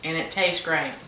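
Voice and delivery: talking while chewing; words around a bite of chip; mouth full. Real, not acted. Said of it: "sorry to eat on camera".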